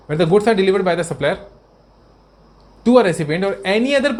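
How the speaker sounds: reading the law out slowly, word by word; slow statute reading. Acted. Teacher reads the GST law to students, slow and deliberate. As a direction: dictate each clause slowly to the class.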